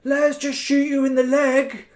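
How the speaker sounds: high, loud mock-reasonable pitch. Player explaining the leg-shot deal to the rabbit, mock reasonable. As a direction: sell a silly deal as fair. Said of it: "I'm trying to explain to him".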